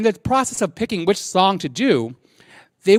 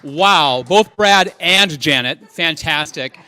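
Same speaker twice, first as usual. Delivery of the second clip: loud, slow, drawn-out cheer; loud stretched-out wow for the performer; excited praise; 3 semitones lower, 5 dB louder, much slower than usual. Real, not acted. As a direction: hype the crowd up after the number. Host hyping the performance.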